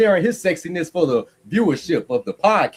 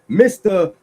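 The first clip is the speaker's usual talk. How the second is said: slow drawn-out tease; 4 semitones higher, much slower than usual. Acted. Drawn-out teasing call.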